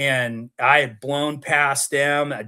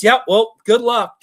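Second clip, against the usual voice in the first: amused dealer guy; 9 semitones higher, 7 dB louder than usual. Retold or imitated. Dealer guy mocking his problem.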